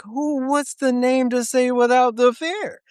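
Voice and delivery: baffled drill sergeant imitation. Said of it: "we all looked over like".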